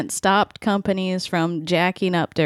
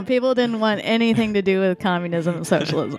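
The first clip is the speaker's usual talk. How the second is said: put-on old-timey announcer voice, dramatic narration; lightly voiced old newsreel narrator. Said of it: "That's my old-timey voice".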